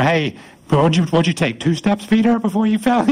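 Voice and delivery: teasing, climbing high in pitch; playful ribbing. Acted. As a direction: rib a buddy about his failure. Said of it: "Peter probably got ribbed about that".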